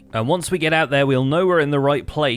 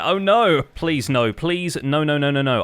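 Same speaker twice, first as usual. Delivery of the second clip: anguished denial. Real, not acted. Cave spider spawner nearby.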